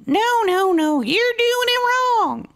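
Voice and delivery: high, loud filly correcting her friend; high-voiced filly telling her friend she's doing it wrong; bossy little filly. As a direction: set the younger filly straight. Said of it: "she said".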